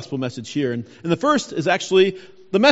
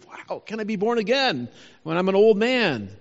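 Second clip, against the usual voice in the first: imitated amazement on a stretched "Wow"; mildly acted surprise; 2 semitones higher than usual. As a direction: voice a puzzled man's astonished question, lightly. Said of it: "this surprises Nicodemus".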